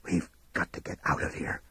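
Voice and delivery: hoarse near-whisper; husky, strained voice with little tone. Acted. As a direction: rasp it out urgently. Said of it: "Tookie said hoarsely".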